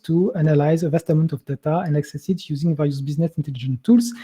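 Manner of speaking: English read with a strong French accent. Real, not acted. Reading an exam question to viewers, French-accented English. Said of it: "accent anglais".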